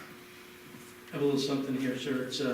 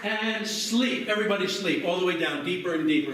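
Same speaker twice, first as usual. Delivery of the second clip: hypnotist command. Acted.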